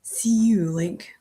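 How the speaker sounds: lightly voiced rough Aberdonian woman; a hint of a tough Aberdonian wifey facing the killer; mild Aberdonian wifey threat. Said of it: "really rough Aberdonian wifeys".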